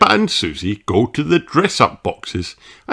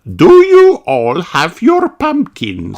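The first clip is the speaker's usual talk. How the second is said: calling out; 9 semitones higher, 6 dB louder than usual. Acted. Madame Gazelle calling.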